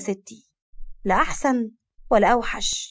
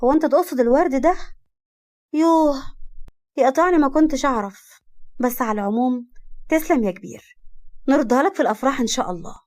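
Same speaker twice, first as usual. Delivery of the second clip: playing dumb; 3 semitones higher than usual. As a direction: act clueless about the roses on purpose. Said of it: "كارما ببلاها". (بلاهة مصطنعة بصوت أعلى)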